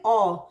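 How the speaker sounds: "ऑ" low, loud and long, no r. Shown as a demonstration. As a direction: read OR as a pure "ऑ". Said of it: "बस क्या पढ़ेंगे".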